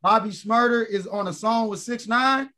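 high-pitched, real disbelief; incredulous question. Real, not acted. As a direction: ask it as if you cannot believe it. Disbelief at the featured song.

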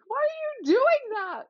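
put-on high, slow, upset child's cry; retold scream. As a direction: plead with them in a high wail. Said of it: "started screaming".

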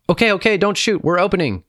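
high-pitched urgent shout back; calling out. A narrator's reading. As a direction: call through the door to stop them firing. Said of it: "His son Boutros called out".

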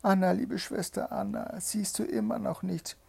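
high, urgent call; wife calling her sister. A narrator's reading. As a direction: call anxiously, pitched well up. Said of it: "Dann rief sie".

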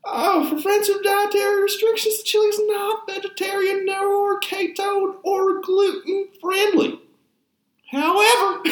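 put-on old prospector voice. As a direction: ham up an old Texas prospector. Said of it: "reading it in that stupid voice".

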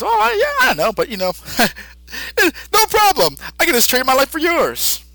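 put-on high, creaky old-man squeak. The old Kai offering his life, in a high creaky old-man voice. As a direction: play a doddering old man. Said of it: "the old Kai says".

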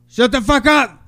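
sudden loud yell at himself; retold outburst. Retelling Wesley yelling at himself in the library, loud outburst. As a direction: snap at the voices in his head. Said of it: "he just goes".

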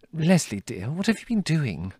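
fussing mother. Acted. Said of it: "she asked".

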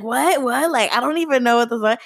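put-on defensive protest, quickened at the end. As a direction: imitate a guy getting all defensive. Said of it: "like, all defensive".

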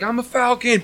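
high, silly cartoon voice; goofy hero voice. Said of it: "Velcro comes through like".

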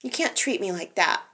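Summer's first half-hearted try, quiet and meek; timid first try. Retold or imitated. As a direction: say it meekly, barely there. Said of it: "Summer's just like".

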